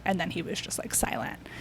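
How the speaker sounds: whispered, dropping away to nothing; breathy whispered aside. Real, not acted. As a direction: hush it out like a secret. Describing mentor's silence.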